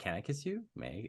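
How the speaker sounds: clumsy, awkward little delivery. Retelling a film scene: awkward, imitating Kristoff. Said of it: "it's all awkward".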